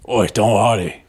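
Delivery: low mock British "Oi"; hammed-up London greeting. Host greets Tom Hardy in mock British.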